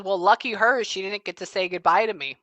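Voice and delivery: lightly sarcastic quip; jokey sarcasm. Retold or imitated. Spirit joking about a missed goodbye, light sarcasm. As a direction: make a wry joke of it. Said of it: "in a jokey, funny way, but also with her sarcasm".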